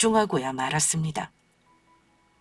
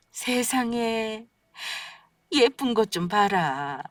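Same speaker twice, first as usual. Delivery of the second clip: tender marveling; 3 semitones higher, slower than usual. Acted. Grandparent marvels at baby photo.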